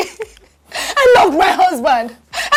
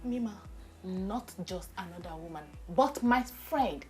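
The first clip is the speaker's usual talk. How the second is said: tearful complaint; 10 semitones lower, 16 dB quieter than usual. Acted. Wife tearfully reporting husband's affair.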